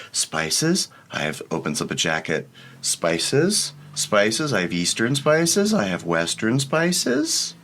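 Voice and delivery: high, rising street vendor calls; hawking spice seller. Acted. Spice merchant opening his jacket to the party, high hawking calls. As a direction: tempt them with your spices.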